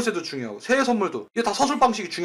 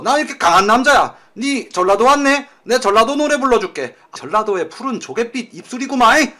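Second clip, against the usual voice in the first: hammed-up flirting; 3 semitones higher, 5 dB louder than usual.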